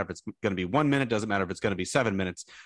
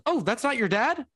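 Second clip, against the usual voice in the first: much higher, startled question; surprised lady fan. Retold or imitated. Fan realising Rex is not the dad, much higher voice. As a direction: gasp it as the confused fan. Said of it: "She goes".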